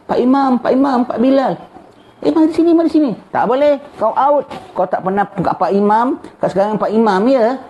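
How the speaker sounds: high pleading call to the imam and bilal; calling out, acted. A lost soul calling his old imam and bilal over, high pleading call. Sinner calls to imam in hereafter.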